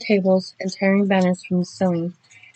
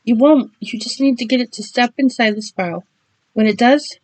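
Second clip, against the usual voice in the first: voice cracking; 4 semitones higher, 3 dB louder than usual. Acted. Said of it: "voice cracking".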